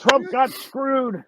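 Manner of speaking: Hillbilly voice. Retold or imitated. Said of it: "doing the Hillbilly voice".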